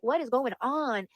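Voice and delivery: drawn-out, incredulous quoted question; slow, emphatic retold bafflement; baffled lender. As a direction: stretch each word in imitated disbelief.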